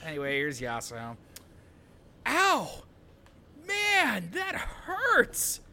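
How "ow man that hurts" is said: high, hammed-up whimpering ow; fake crying. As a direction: pretend to cry over a hurt foot. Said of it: "I'll just pretend to cry".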